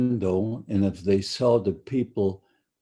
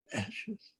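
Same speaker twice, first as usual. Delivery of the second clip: "ashes" much softer and far higher, hollow and rising; the threat trailing off as an eerie, much softer echo; 10 semitones higher, 15 dB quieter than usual. Retold or imitated. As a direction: breathe "ashes" out high and faint like a ghostly echo. Guard's threat, ashes repeated.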